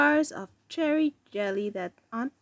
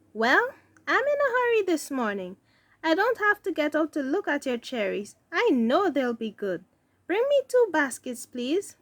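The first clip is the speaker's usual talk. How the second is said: hurried lady customer; 5 semitones higher than usual. Acted.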